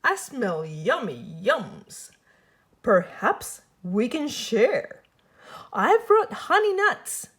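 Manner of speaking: a sly little badger offering treats; eager grinning badger voice. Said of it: "Badger says with a grin".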